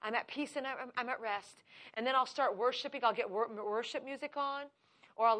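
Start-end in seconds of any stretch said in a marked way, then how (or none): 0.0-1.6 soft, restful thanks; quiet, softer prayer of rest; peaceful prayer. Retold or imitated. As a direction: settle into calm trust. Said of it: "I say".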